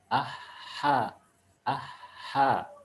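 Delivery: "aha" with a long, clean breathed H. Shown as a demonstration. Teacher demonstrating for pupils, clean mid-throat H in "aha". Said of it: "dia diucapkan dengan bersih".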